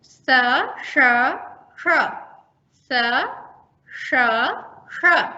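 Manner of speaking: स, श, ष cleanly separated; crisp isolated hissing sounds in turn; sibilant drill. Shown as a demonstration. Teacher leading trainees in sibilant practice. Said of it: "इस तरह से उच्चारण करें तो क्लियर हो जाएगा".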